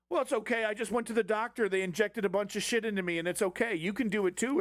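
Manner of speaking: lightly mock a casual rich podcaster; lightly voiced Joe Rogan.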